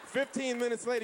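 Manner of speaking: ordinary delivery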